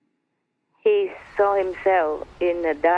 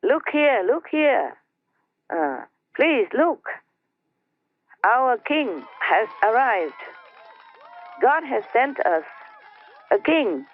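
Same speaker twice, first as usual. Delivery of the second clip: storyteller playing an awed herald, spaced phrases; proclaiming; 4 semitones higher than usual. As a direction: announce it to a crowd in raised pitch. Leaders announce the king to crowd.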